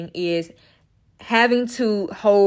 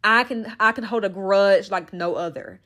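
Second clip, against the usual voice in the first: ordinary talk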